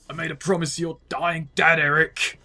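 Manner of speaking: lightly put-on grizzled old man; Terry. Second try at the impression for co-commentators, lightly put-on voice. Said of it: "pulling off Terry's voice".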